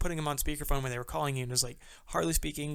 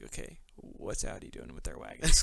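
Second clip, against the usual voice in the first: mock carmaker musing; 3 semitones lower, 3 dB quieter than usual.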